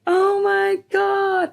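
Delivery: drawn-out, high, amazed "oh my God"; stunned gasp. Retold or imitated. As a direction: gasp it slowly, as mum hearing her daughter's voice. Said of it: "And she was like".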